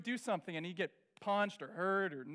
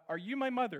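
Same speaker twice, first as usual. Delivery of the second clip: ugly duckling; 4 semitones higher, 3 dB louder than usual. Retold or imitated. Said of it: "I was the ugly duckling".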